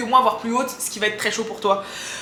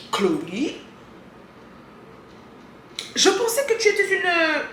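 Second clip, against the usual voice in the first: mock scandalized; 7 semitones higher, 5 dB quieter than usual. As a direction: fake shocked disapproval. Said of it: "Non, je rigole".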